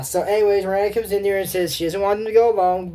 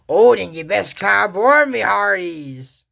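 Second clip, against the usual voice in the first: louder, slow on me hearties; hearty pirate; 4 semitones higher, 6 dB louder than usual. Acted. Pirate captain inviting the girls aboard, hammed-up. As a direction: ham up the pirate welcome.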